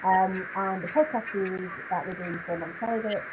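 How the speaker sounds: muffled, boxy fishbowl sound; sounding like inside a glass bowl. Real, not acted. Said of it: "You sound like you're in a fishbowl".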